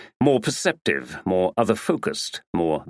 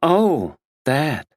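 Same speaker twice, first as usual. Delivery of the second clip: higher, louder offhand American oh; dismissive American; 6 semitones higher, 3 dB louder than usual. A narrator's reading. Actress Tina dismissing the murder, offhand American accent. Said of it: "She spoke in an American accent".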